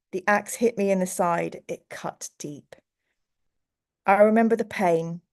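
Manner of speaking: measured, dark storytelling read; story narration. Acted. Streamer reads a bedtime story to chat, hushed and grave. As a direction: read it like a grim bedtime tale.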